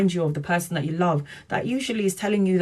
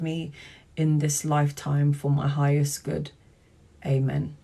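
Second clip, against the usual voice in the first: measured, solemn prayer recitation; 2 semitones lower than usual. Shown as a demonstration. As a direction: intone it like a prayer. Repeats the prayer for viewers.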